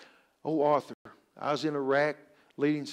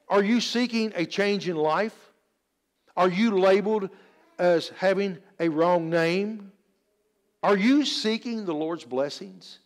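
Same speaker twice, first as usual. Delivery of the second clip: deliberate, emphatic pulpit questions; preaching; 4 semitones higher, 4 dB louder, slower than usual. Real, not acted. Preacher challenging the church to seek blessings, emphatic preaching. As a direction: put each question squarely to the congregation.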